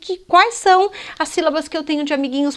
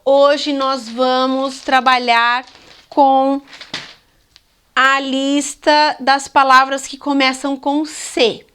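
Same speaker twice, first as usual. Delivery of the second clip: slow teacher voice; slower than usual. Shown as a demonstration. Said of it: "Listas coletivas na lousa".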